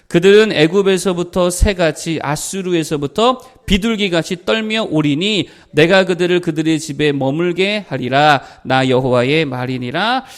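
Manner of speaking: measured, solemn Bible reading voice; scripture reading. Acted. Pastor reading Hosea to the congregation, solemn reading. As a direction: read the verse out steadily, like from the pulpit.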